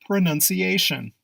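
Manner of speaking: Pronunciation said pro-NUN-see-AY-shun; nun, not noun. Shown as a demonstration. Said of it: "there is no noun sound".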